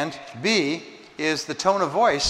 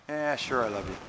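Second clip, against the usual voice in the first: offhand; 2 semitones lower, 4 dB quieter than usual. Shown as a demonstration. Answering "do you love me?" with a dismissive shrug in the voice. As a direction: toss it off without meaning it. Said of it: "if you say".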